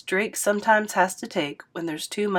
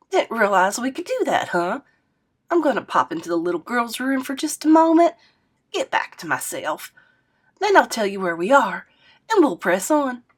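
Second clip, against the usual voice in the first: put-on a bit higher, brighter old lady; perky grandma voice; 3 semitones higher, 3 dB louder than usual. Grandma tells Scoob she'll freshen up, perky. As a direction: chirp it out like a spry granny.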